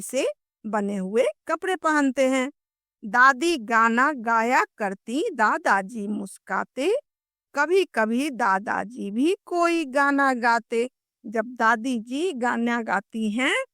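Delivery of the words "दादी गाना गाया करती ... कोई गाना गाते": put-on lilting children's rhyme; कविता पाठ. Shown as a demonstration. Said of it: "हम लोग कविता पढ़ते हैं". (लय के साथ कविता सुनाना)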